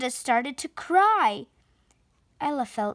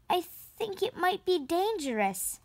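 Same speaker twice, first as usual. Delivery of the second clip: soft, timid little voice; meekly; 6 semitones higher, 5 dB quieter than usual. A narrator's reading. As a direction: say it shyly, quieter, almost afraid to speak up. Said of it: "Ella said meekly".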